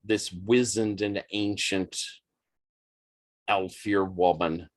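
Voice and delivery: low, measured scene setting; game master's narration. A narrator's reading. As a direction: narrate a grim climax with weight.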